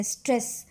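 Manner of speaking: स्ट्रेस with the first and last S sounds pressed, the R light; stress on S. Shown as a demonstration. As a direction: lean on both S sounds in स्ट्रेस. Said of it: "बहुत दबाव डाला है हमने". (स्ट्रेस में पहले और आख़िरी स पर दबाव, र हल्का)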